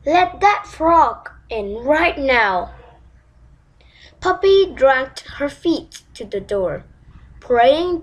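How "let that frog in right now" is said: slow, hard-edged command; furious order. Acted. King ordering his daughter to open the door, slow furious command. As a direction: lay down the law, each word deliberate. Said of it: "said her father furiously".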